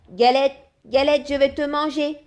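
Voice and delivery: greedy rabbit calling out; rabbit shouting. A narrator's reading. Rabbit threatening to eat the cake, high loud greedy shout. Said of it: "crie le lapin".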